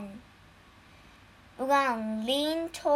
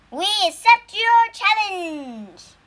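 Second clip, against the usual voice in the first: smiling; 8 semitones higher, 9 dB louder than usual. Acted. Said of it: "said the monkey with a smile".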